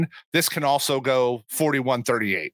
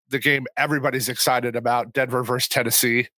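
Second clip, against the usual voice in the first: dry sarcastic remark. Acted. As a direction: say it with obvious sarcasm. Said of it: "If you can't hear the sarcasm in my voice, that was sarcasm".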